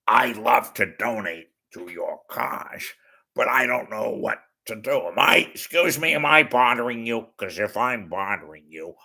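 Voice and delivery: lightly voiced hesitant TV detective; Columbo. Detective asking if he's bothering you, lightly imitated. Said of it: "As Columbo would have told me".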